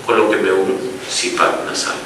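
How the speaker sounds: the newborn begging the doctor and nurse for CPAP, softly pleading; baby's plea. Retold or imitated. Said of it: "le esté diciendo".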